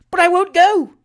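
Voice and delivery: very high, loud desperate cry; loud refusal. Acted. Trott fighting being pushed in, desperate shout. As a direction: refuse with all your strength. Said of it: "exclaimed Mister Trott".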